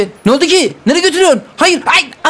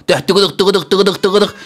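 horse trot sound; 5 semitones lower than usual. Pretend. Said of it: "atçılık oynayalım mı".

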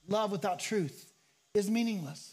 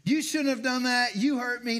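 accusing; 3 semitones higher, 3 dB louder than usual. Retold or imitated. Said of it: "you" statements".

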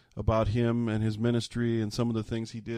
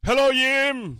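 put-on high, loud Norwegian-accented hello; imitating grandpa's Norwegian hello; 7 dB louder, slower than usual. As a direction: boom out a hearty Norwegian greeting. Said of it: "With that Norwegian accent".

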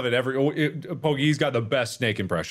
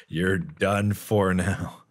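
menacing gloat; 2 semitones lower, slower than usual. Pretend. Gloating as he lines up.

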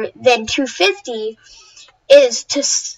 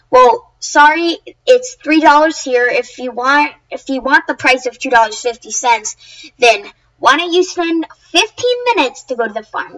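annoyed retort. Retold or imitated. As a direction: set the customer straight with mild annoyance. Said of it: "he's annoyed".

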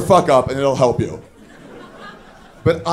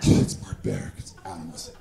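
mock disgust; 9 semitones lower, 7 dB quieter than usual.

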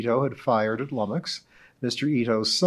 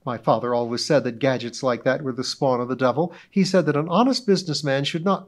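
orate as if giving a club speech; pompous witness; 2 semitones higher, 4 dB louder than usual. Acted. Mrs Donahue role.

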